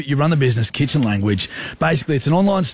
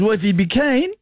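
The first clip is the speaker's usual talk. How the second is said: higher, laid-back Aussie mate; Smithy impression; 8 semitones higher than usual. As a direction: read his voice note as him, pitched up. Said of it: "Smith Tech impression".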